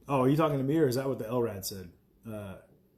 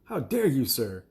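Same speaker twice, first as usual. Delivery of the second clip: mock indignant; 2 semitones higher, 3 dB louder, slower than usual.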